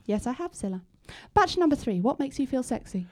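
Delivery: timid quiet voice. Acted. The contestant's voice.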